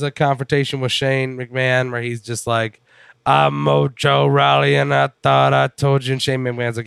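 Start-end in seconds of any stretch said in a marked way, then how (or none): 3.2-6.1 Mojo Rawley imitation. Wrestler confronting Shane McMahon, mock promo voice. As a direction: announce yourself like a hyped wrestler, mockingly.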